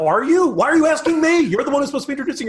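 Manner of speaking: mock annoyed questioning; mock exasperation. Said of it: "You end up with upspeak".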